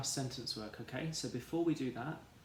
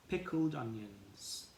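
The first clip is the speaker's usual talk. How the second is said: slow, clear word; slower than usual. Shown as a demonstration. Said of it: "one, two, three".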